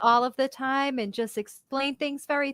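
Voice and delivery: careful, composed and proper; proper teacher voice. Shown as a demonstration. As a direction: speak precisely, like to children. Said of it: "talk like this".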